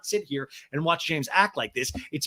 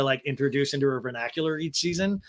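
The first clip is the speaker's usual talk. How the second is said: ordinary delivery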